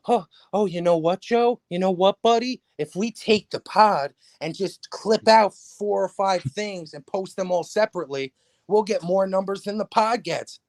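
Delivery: whiny nerdy loser voice; mock a whiny loser. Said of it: "your Jewish voice is making me laugh".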